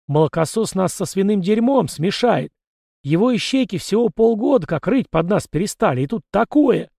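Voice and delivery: furious bellow at a fool; angry shout. Acted. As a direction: blast it out in rage. Prince explodes at servant.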